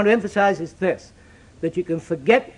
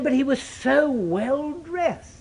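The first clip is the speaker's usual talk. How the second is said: quoting the bank managers; 7 semitones higher, slower than usual. Retold or imitated. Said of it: "they said".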